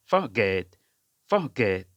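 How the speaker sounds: "ফরগেট" as "fuh-GET", weak first vowel; demonstrated pronunciation. Shown as a demonstration. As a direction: say "ফরগেট" with a short schwa, then "get". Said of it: "এরকম উচ্চারণ হবে".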